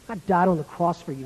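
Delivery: low, soft reproach; restrained anger. Acted. Jesus confronting John face to face, quietly angry. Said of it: "I'm so angry with you".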